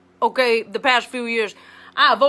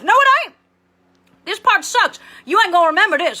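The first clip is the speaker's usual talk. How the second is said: loud retort; 7 semitones higher, 4 dB louder, faster than usual. Acted. Cutting off students' claim.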